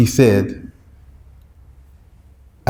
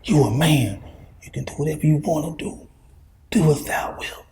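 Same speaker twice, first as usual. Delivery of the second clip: soft tempting whisper, slightly higher; Shaitan whispering; 3 semitones higher, 9 dB quieter than usual. Retold or imitated. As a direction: hiss it into their ear like a tempter. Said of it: "I'm gonna whisper to these jokers like".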